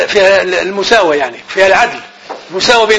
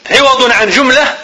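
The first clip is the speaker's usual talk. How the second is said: slow and deliberate; dictating pace; slow dictation; 3 semitones higher, slower than usual. Shown as a demonstration. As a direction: dictate it slowly for notes. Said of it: "teacher dictating".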